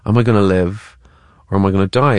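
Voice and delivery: "Am I gonna live", pause, "or am I gonna die"; thinking pauses. Acted. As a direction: weigh "live", pause, then "die" as a question. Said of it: "is that he's thinking".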